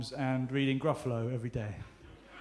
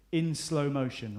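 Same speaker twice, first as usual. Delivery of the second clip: slow motion; slower than usual. Shown as a demonstration. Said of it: "I'm gonna give you a cue".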